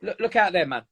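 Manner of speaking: lightly voiced fearful inner voice, slowing at the end; a hint of the coaxing fear voice talking you out of it. Inner fear voice discouraging a morning workout, lightly voiced and coaxing. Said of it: "your voice inside your head goes".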